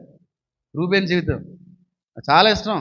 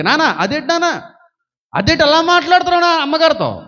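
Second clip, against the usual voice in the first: higher, urgent son scolding his dad; son pleading with father; 6 semitones higher than usual. Retold or imitated. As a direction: plead and protest as the upset son. Son confronting father about mother. (తండ్రిని నిలదీసే కొడుకులా, ఆవేదనతో)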